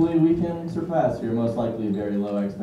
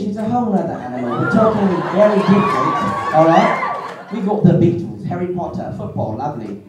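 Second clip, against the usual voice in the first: mock British accent; 4 semitones higher, 3 dB louder than usual. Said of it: "we got British".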